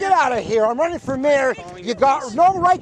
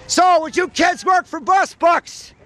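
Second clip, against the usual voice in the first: calling out; 4 semitones higher than usual. Real, not acted. Shouting offer to students.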